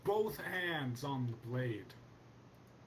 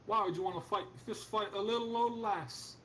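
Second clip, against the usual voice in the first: leprechaun; 7 semitones higher than usual. Acted. GM voicing the blacksmith lass.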